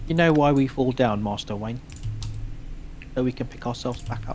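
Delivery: lightly put-on British mentor voice; Michael Caine. Quoting a film line to a friend, lightly voiced Michael Caine. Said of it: "it's the Michael Caine".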